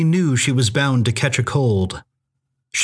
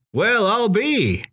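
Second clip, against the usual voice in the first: slow, higher-pitched folksy astonishment; surprised old-timer; 7 semitones higher, slower than usual. A narrator's reading. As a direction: draw it out in amazed recognition. Groggy cabin owner surprised by visitor.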